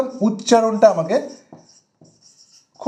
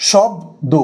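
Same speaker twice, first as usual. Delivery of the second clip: "শব্দ" broken after shob; syllable split; 3 semitones higher, much slower than usual. Shown as a demonstration. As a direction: stop briefly inside "শব্দ" before do. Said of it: "এই যে প্রথম দলটা". ("শব্দ" প্রথম দলে থেমে ভেঙে)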